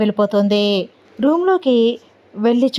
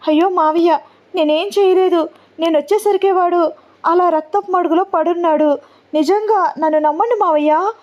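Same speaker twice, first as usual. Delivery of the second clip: higher, pleading in mild panic; panicked; 8 semitones higher than usual. Acted. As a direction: beg her uncle to believe her, anxiously. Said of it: "కంగారు పడుతూ, చాలా భయపడుతూ".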